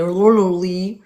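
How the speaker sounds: mock-accented lolly. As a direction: blurt out lolly as a sneering imitation. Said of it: "someone who doesn't say".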